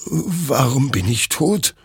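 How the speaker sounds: high, slow, plaintive question; stunned, distressed. A narrator's reading. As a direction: ask it in bewildered despair. Soldier sees his own corpse.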